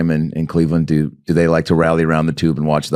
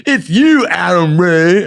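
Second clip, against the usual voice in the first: put-on high, pointed kid's taunt; retold accusation; 10 semitones higher, 3 dB louder, slower than usual. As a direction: call out the culprit, pitch way up. Camp kids' retold accusation.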